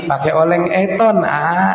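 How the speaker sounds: "oleng eton" for goreng jengkol, lisped; lisping baby talk. Retold or imitated. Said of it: "cadel-cadelin". (bicara cadel manja)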